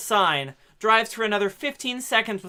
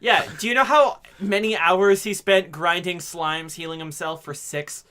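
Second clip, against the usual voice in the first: mock-indignant rant; 4 dB louder than usual. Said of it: "mock defense".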